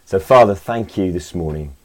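earnest spoken prayer. Acted. Leads a prayer.

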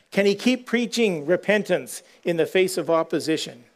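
ordinary delivery

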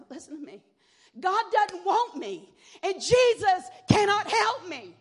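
high, laughing half-scream; retold scream. Daughter screaming at mother, high and laughing. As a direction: fling it at her, cracking with a laugh. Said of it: "I finally screamed at her".

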